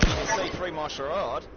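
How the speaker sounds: drawn-out put-on Aussie accent; Australian accent. Shown as a demonstration. Gamer admitting the act to teammate, slow Australian accent. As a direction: concede slowly in a mock Australian accent. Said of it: "Now that was pretty good".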